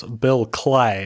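slow, badly faked Texan drawl; half-hearted imitation of a bad Texan accent; terrible Texan accent. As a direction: draw it out like a fake Texan. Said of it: "my accent doing his accent doing a Texan".

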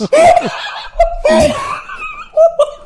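big high laugh breaking out. Real, not acted. Bursts out laughing after punchline.

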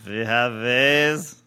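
hammed-up German officer voice; slow, German-accented TV general; General Burkhalter. Co-host imitates officer addressing Klink, in a German accent. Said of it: "you're doing Clink as".

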